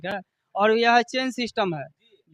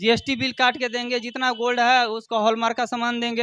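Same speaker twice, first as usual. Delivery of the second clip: hard sell ad; 3 dB louder than usual. Acted. Shopkeeper pitch continues.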